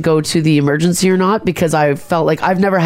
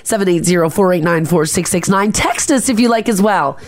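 out of breath, reading numbers; breathless after a long read. Real, not acted. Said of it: "sorry, I'm out of breath".

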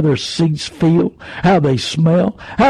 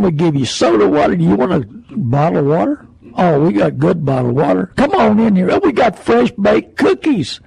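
mock salesman pitch. Mimicking a car salesman's pitch.

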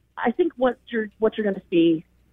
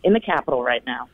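echoey voice from a stone tunnel; talking while walking through echoing tunnels. Real, not acted. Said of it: "Sorry about the echo".

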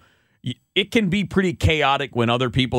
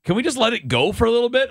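Tony La Russa; 13 semitones higher than usual. Acted. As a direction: imitate an exasperated manager fed up with questions. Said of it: "You remember that rant from him?".

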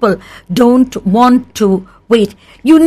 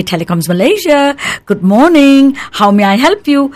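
receptionist's stretched-out phone patter; long drawn-out greeting; 4 semitones higher than usual. Acted. Company receptionist answering callers, long drawn-out greeting. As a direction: give the full formal greeting, lightly drawn out. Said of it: "a long drawn out thing".

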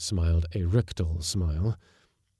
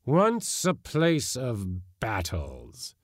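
very slow, solemn; grave ghostly lament; ghost warrior Ior; 6 semitones higher, much slower than usual. A narrator's reading. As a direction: mourn the old wars. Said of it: "said Ior of Wendello".

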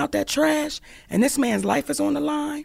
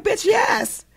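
inner voice; 11 semitones higher than usual. Retold or imitated. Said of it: "the little voice be like".

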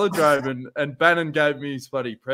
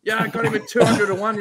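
smug blokes; 5 semitones higher than usual. Retold or imitated. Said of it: "all these blokes going".

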